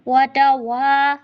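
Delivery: वतवा with well-rounded waw. Shown as a demonstration. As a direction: focus the lips on the waw of वतवा. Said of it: "वाव की अदायगी proper focus में".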